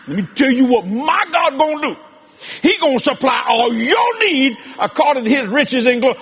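shouted confident proclamation; bold declaration. Retold or imitated. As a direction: declare it like a prophet. Quoting bold prophetic declaration.

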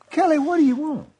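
high-pitched retold parental exasperation; exasperated father. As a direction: ask the whining child, fed up. Exasperated father answering whining child.

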